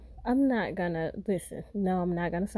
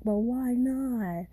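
mock whiny scammer; 3 semitones higher, much slower than usual. Mimics scammer whining.

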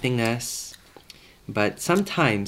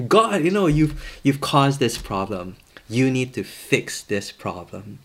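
blaming God. Acted. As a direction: put the blame on God, pitched up then easing. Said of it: "they're blaming God".

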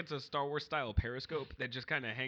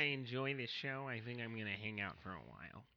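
softer, lower timid coworker; lightly voiced meek coworker Larry; meek office guy; 3 semitones lower, 6 dB quieter than usual. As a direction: mumble like a shy office drone. Playing Larry the stapler guy.

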